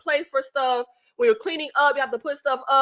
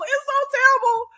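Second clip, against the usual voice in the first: high laughing whine; 11 semitones higher than usual. Real, not acted. Repeats high, whiny laugh.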